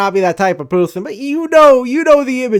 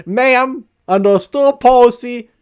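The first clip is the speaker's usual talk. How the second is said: hyped up; 6 semitones higher, 3 dB louder than usual. Retold or imitated. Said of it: "how fucking hyped and agitated I am".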